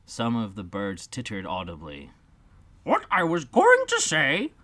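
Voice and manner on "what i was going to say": mild, unruffled dodo; calmly carries on; unoffended dodo. Acted. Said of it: "in an unoffended tone".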